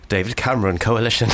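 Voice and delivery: mock English accent; put-on English accent; English accent via Northern Irish speaker. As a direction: imitate someone easing into an English accent. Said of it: "to get into the English accent".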